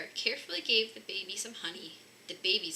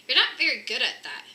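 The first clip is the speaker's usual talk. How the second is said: teasing bear cub; 3 semitones higher, 9 dB louder than usual. A narrator's reading. Cub Fred teasing Mister Bear.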